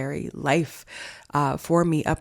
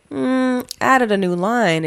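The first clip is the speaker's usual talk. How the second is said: shocked question; 7 semitones higher, 6 dB louder, slower than usual. Retold or imitated. Hearing about a new line.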